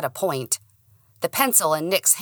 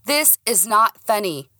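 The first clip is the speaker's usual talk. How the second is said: annoyed; 5 semitones higher, 3 dB louder than usual. Acted. Annoyed after being laughed at.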